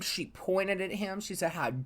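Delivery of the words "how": slow indignation with a loud burst on "dare"; retold theatrical outrage, drawn out; mock outraged yell. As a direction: act out a scolding, each word weighed. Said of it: "they yelled and screamed".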